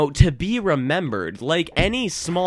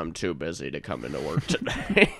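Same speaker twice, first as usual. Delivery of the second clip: creepy Buffalo Bill; 5 semitones lower than usual. Pretend. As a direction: sound unsettling and creepy. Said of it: "are you rubbing the lotion on".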